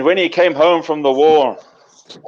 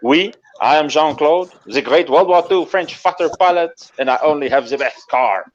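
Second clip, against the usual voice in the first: French fighter pilot. Acted. Pilot boasting to an admirer, lightly French and self-important. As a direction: announce yourself with a mild French accent. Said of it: "And he goes".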